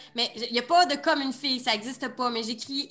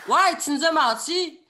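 louder, indignant echo; acted accusation; 3 semitones higher, 4 dB louder than usual. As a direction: back up your friend's accusation. (accusation indignée jouée)

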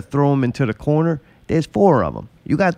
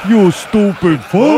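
louder and slower, cursing himself; mock self-scolding; 5 semitones higher, 6 dB louder, slower than usual. Gamer cursing himself over a rigged wrestling match, mock angry. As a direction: spit it out at your own stupidity.

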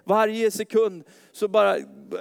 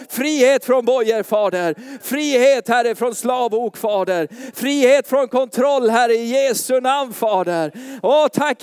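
loud, higher cries of freedom; proclaiming freedom; 5 semitones higher, 6 dB louder than usual. Real, not acted. Pastor proclaiming freedom over the congregation, loud and high. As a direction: declare each freedom with force.

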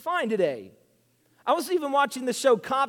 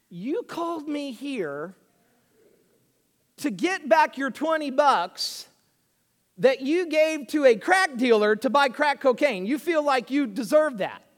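incredulous police officer; 2 semitones higher than usual. Retold or imitated. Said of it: "so the police officer says".

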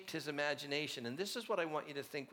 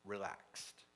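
soft, low, unhurried "Relaxed."; quiet relaxed; 5 semitones lower, 7 dB quieter than usual. Retold or imitated. Dallas Willard answering in one word, softly. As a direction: let the word settle, quiet and easy. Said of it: "and said".

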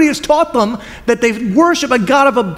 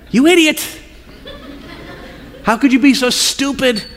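a hint of God scolding, higher and direct; blunt God; 5 semitones higher than usual. God bluntly rebuking the rich man, a hint of scolding. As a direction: call him out bluntly. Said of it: "God's so direct".

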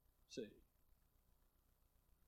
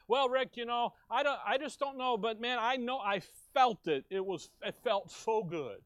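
higher, breathless mock testimony; a light mock of an excited believer; gushing mock churchgoer; 6 semitones higher, 3 dB louder than usual. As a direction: play a starry-eyed believer gushing. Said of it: "mock churchgoer quoting feelings".

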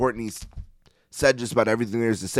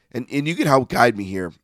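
voice giving out. Real, not acted. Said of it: "I'm losing my voice a little bit".

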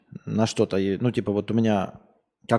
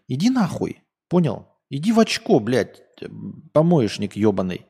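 angry outburst; 2 semitones higher than usual. Real, not acted. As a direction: snap back furiously at a troll. Вспылил на коммент про голос. (злой выкрик)

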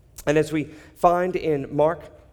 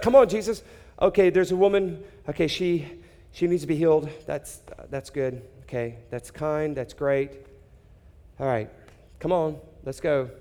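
impatient father. Retold or imitated. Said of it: "That's what I'd be like".

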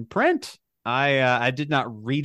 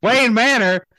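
"Wayne" punched louder and higher as a correction; stress on Wayne; 8 semitones higher, 7 dB louder than usual. Acted. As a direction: hit "Wayne" to fix the slip. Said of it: "Maine, Maine Manor laughs".

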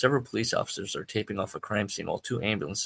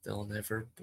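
pacifying; 10 dB quieter than usual. Acted. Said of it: "He's trying to pacify him".

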